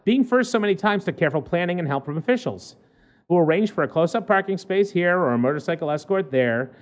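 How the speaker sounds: measured newspaper read-aloud; lightly performed human-interest news read; news story read. Acted.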